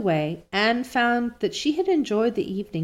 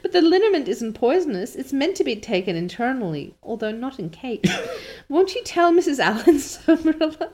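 giggling through Anne's plea; laughing; 6 semitones higher than usual. Real, not acted. Reader cracking up at the cake story, laughing. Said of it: "I can't stop laughing".

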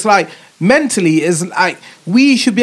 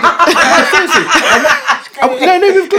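laughing; 10 semitones higher, 3 dB louder than usual. Real, not acted. Laughing while describing glued hair.

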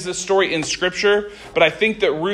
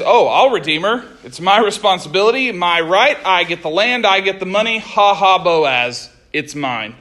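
greedy gloating kinsman. Retold or imitated. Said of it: "this man says".

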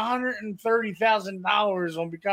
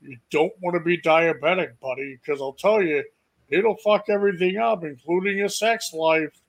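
dad's warning; 4 semitones lower than usual. Retold or imitated. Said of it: "he goes".

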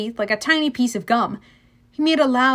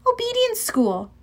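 high voice, a touch breathless; 11 semitones higher than usual. A narrator's reading. Annabeth explains her trick to Percy, breathlessly. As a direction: answer on little breath. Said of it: "she said breathlessly".

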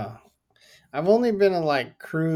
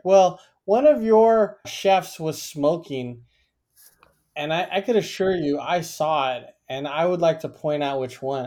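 mock complaining customer; 3 semitones higher, 5 dB louder than usual. Customer complaining about chefs smoking.

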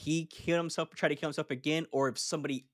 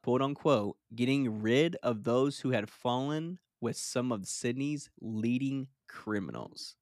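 measured true-crime narration; reading case notes aloud. Real, not acted. Host reading gangland history to co-host, measured narration. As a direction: read the case out deliberately.

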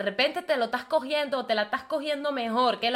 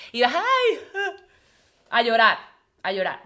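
mock whiny crying; 6 dB louder than usual. Mocking the other woman who ends up crying, whiny mock wail. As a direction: whimper it like a jilted lover, half mocking.

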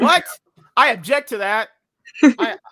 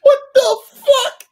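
shocked laugh; 12 dB louder, much slower than usual. Real, not acted. Reacting to the clip.

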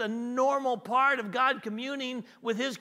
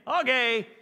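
mock baffled God; 3 dB louder than usual. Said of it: "He wasn't saying".

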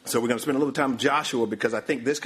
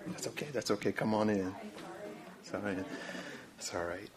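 soft, low aside; quiet reassurance; 3 semitones lower, 12 dB quieter, faster than usual. Real, not acted. Preacher waving someone in mid-reading, quietly reassuring. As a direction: drop your voice to welcome someone in.

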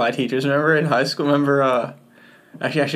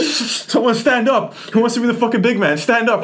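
mock teacher challenge; 8 semitones higher than usual. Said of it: "He's like".

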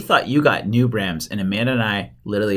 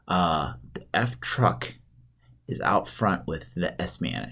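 low, slow and softened; guarded code talk; 6 semitones lower, 8 dB quieter, much slower than usual. Retold or imitated. Husband coding news to wife on speakerphone, low and guarded. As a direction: spell it out discreetly, in code.

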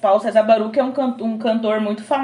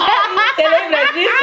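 laughing; 7 semitones higher, slower than usual. Real, not acted. Asking a friend about the church pizza night, laughing. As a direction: ask it through laughter.

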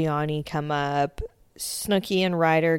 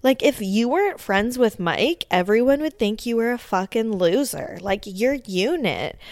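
higher mock scornful rant; mock angry insult; 4 semitones higher than usual. Snooki insulting the Unit, higher mock scorn. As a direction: belittle him, pitched up. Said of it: "She's like".

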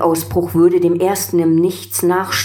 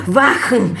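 shouted command; 7 semitones higher than usual. A narrator's reading. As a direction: yell the order. Emperor orders guards again.

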